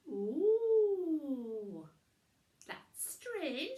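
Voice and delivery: high, bright witch voice, puzzled; a surprised little witch squeak; Winnie voice. A narrator's reading.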